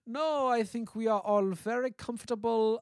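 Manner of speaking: a hint of a cartoon villain; lightly voiced sly cartoon villain; mustache twirling villain. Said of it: "saying it with all of the energy of, like, Dick Dastardly".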